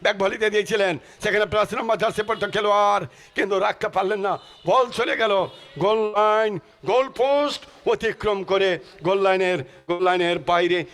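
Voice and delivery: rousing football commentary call; live play-by-play. Acted. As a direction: call the match like a stadium announcer.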